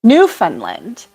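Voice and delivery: slow, trying out "Newfoundland" as NEW-fun-lind; "Newfoundland" with FUN, rising at the end; Newfunlind. Shown as a demonstration. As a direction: sound out "Newfoundland" as Newfunland, tentative. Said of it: "Alice says Newfoundland".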